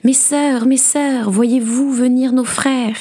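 high call toward the ramparts, stretched at the end; crying out. A narrator's reading. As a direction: call anxiously to faraway sisters. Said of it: "elle cria en direction des remparts".

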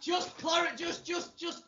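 high laughing splutter; cracking up mid-sentence; laughing outburst. Real, not acted. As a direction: laugh through the words, barely getting them out. Laughing at Jack's reply.

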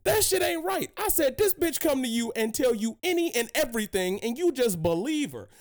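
high, indignant retold rant; high mock outburst at his mama; outraged yelling. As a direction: protest hard against mama. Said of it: "I was like".

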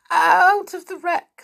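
put-on high, slow little-girl voice; scared. A narrator's reading. Little girl answering her glaring uncle, scared. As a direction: answer fearfully, pitched right up. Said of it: "stammered the little girl, scared".

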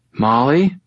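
put-on high, rising girl's voice; weak injured girl. A narrator's reading. Injured girl calls her friend on waking, questioning.

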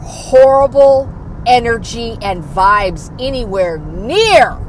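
loud, furious retort; angry telling off. Retold or imitated. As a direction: let them have it, hard. Telling off an enemy.

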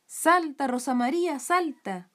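high, loud cheering on; animando. A narrator's reading. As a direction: cheer the girl on to jump. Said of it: "la animaban las brujas". (ánimo entusiasta, agudo y fuerte)

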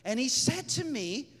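high, soft imitation of her account; wonderstruck retelling. Woman telling what the Lord said, wonderstruck retelling.

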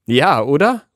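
calling over noise. A narrator's reading. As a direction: raise your voice above the roar. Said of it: "ruft Frieda ihm über den Lärm".

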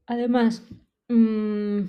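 talking through a yawn. Real, not acted. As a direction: yawn while speaking. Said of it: "voy a bostezar ahora".

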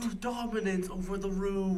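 slow high documentary narrator; mock wildlife narration, drawn out; nature documentary.

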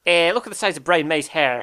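Irish comedian impression; Dara O'Brien. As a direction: do a jokey Irish comedian's exclamation. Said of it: "you've done that impression".

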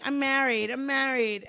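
put-on Jersey Shore accent on "married"; Angelina. Fan quoting the show's ringleader, imitated Jersey accent. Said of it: "she would just keep saying".

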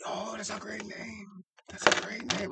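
high, soft mock Arabic accent; bad Arabic accent. Guest quoting an Uber driver, botched high Arabic accent. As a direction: attempt an Arabic accent, badly. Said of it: "I tried to do an Arabic accent".

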